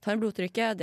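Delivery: ordinary talk, nothing marked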